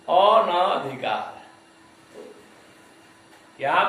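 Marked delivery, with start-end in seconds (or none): 0.1-1.4 slow अनाधिकार, weight on धिकार; teacher stretching अनाधिकार, stressing धिकार. Shown as a demonstration. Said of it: "धिकार पर अधिक जोर है".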